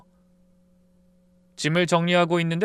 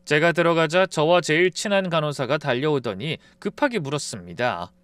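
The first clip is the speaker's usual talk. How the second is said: ordinary delivery, nothing marked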